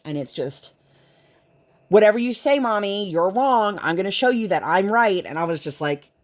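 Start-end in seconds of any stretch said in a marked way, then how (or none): 1.9-5.2 put-on defiant child. Defiant daughter voiced.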